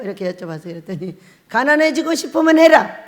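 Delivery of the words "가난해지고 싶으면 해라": stern divine pronouncement, louder; a lightly voiced stern God; voice of God quoted. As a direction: deliver it as God's stern verdict. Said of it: "딱 이러는 거예요".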